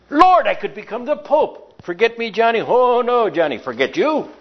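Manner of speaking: high, indignant priest puffing himself up. Retold or imitated. Priest boasting to Johnny that he could be pope, mock indignant. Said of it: "holier than thou attitude".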